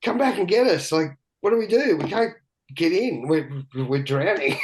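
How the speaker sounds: high-pitched, urgent retelling of panic; retold panic. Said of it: "I go".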